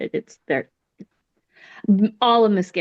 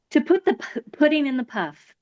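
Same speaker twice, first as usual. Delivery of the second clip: delighted quote; 6 semitones higher than usual. Shown as a demonstration. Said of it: "puts me in such a good mood".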